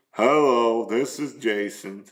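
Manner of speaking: mock unenthused phone answer, falling away; unhappy phone greeting. Shown as a demonstration. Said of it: "Are you happy when you answer the phone? Or are you".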